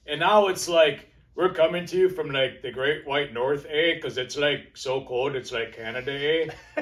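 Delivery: mock Canadian accent with eh; hammed-up Canadian accent. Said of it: "That's my Canadian, my Canadian accent".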